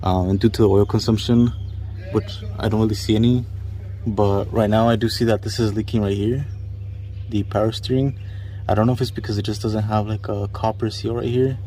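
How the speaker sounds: talking while lying on your back under a car. Real, not acted. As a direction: voice of someone lying under a car, slightly strained. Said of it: "so I'm under the car right now".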